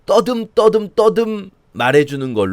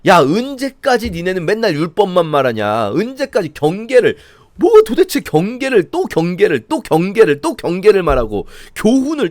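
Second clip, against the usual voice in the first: exasperated, mocking whine; sarcastic complaint; 3 semitones higher than usual. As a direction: roll your eyes at endless sermons. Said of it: "비꼬고 있는 거예요".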